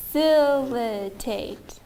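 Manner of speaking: FACILITATE drawn out slowly, one syllable at a time; bounced syllable by syllable. Shown as a demonstration. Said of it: "I'm going to bounce them".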